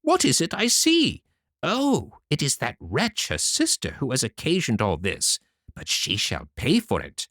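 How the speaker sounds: mother blaming the good sister; horrified mother. Acted. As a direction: gasp then threaten revenge. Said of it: "cried the mother".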